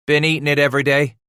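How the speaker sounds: put-on high, fast boy's answer; defensive boy. A narrator's reading. Son excusing himself to father, defensive. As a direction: blurt out the excuse.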